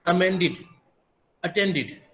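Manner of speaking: अमेंडेड and अटेंडेड ending in "-did"; short i closing अमेंडेड, अटेंडेड. Shown as a demonstration. Teacher modelling the correct ending, अमेंडेड and अटेंडेड with id. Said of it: "वहाँ पे इड होगा".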